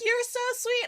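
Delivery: high-pitched, imitated sweet reply; acting out a touched thank-you; touched gushing. Voices the author's touched reply.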